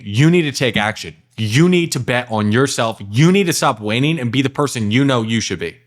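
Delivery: "You" punched as a direct command; stress on YOU. Shown as a demonstration. Coach voices the boss voice to a client, stressing YOU. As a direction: lean firmly on each "You" at the start. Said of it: "I'm emphasizing the you".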